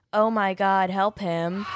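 flat, lifeless monotone plea. Retold or imitated. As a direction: say it in a dead monotone voice. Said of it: "in the most monotone voice ever".

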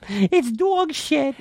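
put-on very high, slow child voice; kid voice. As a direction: drawl it like a tiny kid. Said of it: "kid's got the New York accent".

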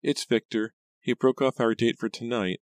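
high, plaintive cousin voice; thin, upset Pam. A narrator's reading. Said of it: "her voice thin and shaky".

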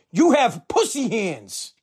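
slow, cutting father's verdict; a hint of a stern father, building; stern dad. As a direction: say it slowly, then push the last lines harder. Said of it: "he just goes".

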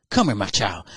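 mock-pious pastor calling someone up; acted beckoning pastor. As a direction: summon them like a joke preacher.

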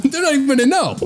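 high squeaky voice of temptation; mock sneaky whisperer. Friend chiming in as a high, sly little devil.

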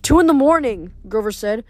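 lightly voiced nervous satyr; a touch of restless Grover. Grover sleepless.

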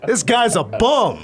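slow, high, scornful verdict; mock disgust. Real, not acted. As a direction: drag out the insult.

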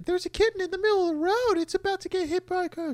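put-on high squeaky child voice, rushed; child Clark. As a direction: play young Clark all worked up. Little Clark voiced in a mock scene.

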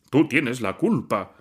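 loud, accusing yell at his wife; angry husband lashing out; yelled blame. A narrator's reading. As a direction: shout the blame at her. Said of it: "le gritó Siriayev".

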